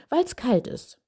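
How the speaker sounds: put-on child voice. Child answers in role-play.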